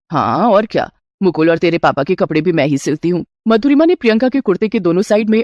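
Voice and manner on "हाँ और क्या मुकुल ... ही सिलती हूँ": a doting mother-in-law offering a gift. Acted. Mother-in-law gives her new bride a gold ring, lower voice.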